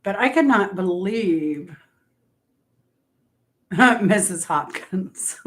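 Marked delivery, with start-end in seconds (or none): 3.7-5.5 laughing. Real, not acted. Laughing at the cat.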